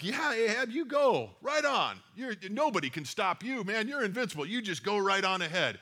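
keen, high yes-man cheer; eager cheering. Retold or imitated. Flatterers cheering on the king.

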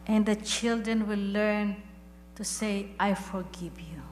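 earnest spoken prayer to God. Acted. Pastor leading the church in closing prayer, devout. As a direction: pray it over the congregation, steady and devout.

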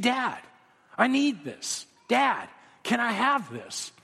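lightly voiced small child asking; childlike pleading. Preacher voicing a child asking his dad, slow and pleading.

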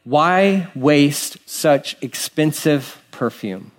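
slow, sneering complaint; a slow mock whine. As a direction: drag it out like a grumbler. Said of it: "here's the complaint".

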